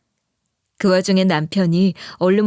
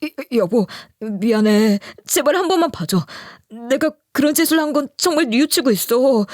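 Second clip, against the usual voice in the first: higher, pleading and shaky-voiced, imitating; trembling plea; 3 semitones higher than usual. Husband clinging to wife's leg, begging in mock trembling. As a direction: beg her not to divorce, a mock tremble. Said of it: "덜덜 떨면서 이런 식으로 빌기".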